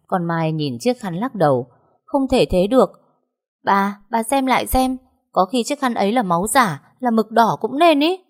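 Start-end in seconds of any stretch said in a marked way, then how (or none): 2.0-8.2 higher, louder disbelieving plea; urgent protest. A narrator's reading. Maid insists to mistress the blood is fake, urgently. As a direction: press the doubt insistently, pitch raised. Maid desperately disputes the proof.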